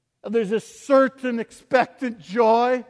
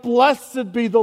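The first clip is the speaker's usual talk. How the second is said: cry out; 2 semitones higher, 5 dB louder than usual. Acted. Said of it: "to cry out".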